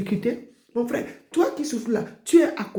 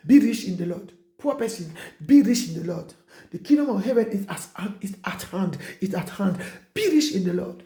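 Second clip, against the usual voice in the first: preaching proclamation. Acted. Preacher blessing the poor in a rising preaching cadence. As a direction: proclaim the blessing in full force.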